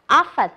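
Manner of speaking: "often" with OF punched loud, the second syllable light; stress first syllable. Shown as a demonstration. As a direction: hit OF in "often" hard, then drop it. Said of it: "trọng âm đều rơi vào âm tiết thứ nhất". (nhấn mạnh âm OF trong "often")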